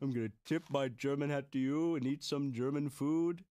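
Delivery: put-on typical German character; mock German accent. Introducing himself as typical German subject, mock German accent. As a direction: play a stereotypical German, accent all through. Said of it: "I am your typical German subject".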